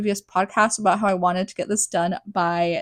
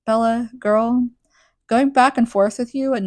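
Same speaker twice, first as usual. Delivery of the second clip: sassy friend; 5 semitones higher, 4 dB louder than usual. Pretend. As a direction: talk to her like a sassy best friend. Host scolds Bella, mock voice.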